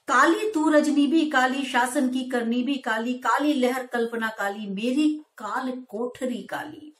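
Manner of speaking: measured verse reading, slowing at the end; poem recitation. Shown as a demonstration. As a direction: recite the stanza, weighting each काली. Teacher recites stanza. (धीमा काव्य पाठ)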